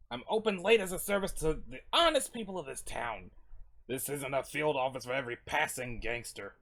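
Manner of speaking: lightly voiced grudging storekeeper; wary night shopkeeper. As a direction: play a shopkeeper refusing a favor.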